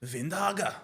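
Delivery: surname said with a put-on Dutch pronunciation; Dutch accent. Shown as a demonstration. Co-host trying out a player's Dutch surname, Dutch accent. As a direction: try the name the Dutch way, lightly.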